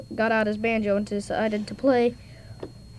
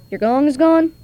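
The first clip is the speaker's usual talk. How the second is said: higher, louder astonished question; surprised; 5 semitones higher, 8 dB louder than usual. Acted. Holmes hears the gong is stolen, surprised. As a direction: gasp it out in disbelief.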